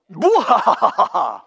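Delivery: loud mocking laugh after the taunt; gloating laugh. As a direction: burst out laughing at the boast.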